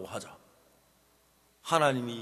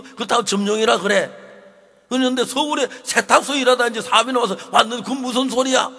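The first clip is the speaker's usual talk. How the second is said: loud, high pleading shout; 8 semitones higher, 11 dB louder than usual. Retold or imitated. Father running barefoot to stop police taking neighbor, loud desperate shout. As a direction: yell at the police to save him.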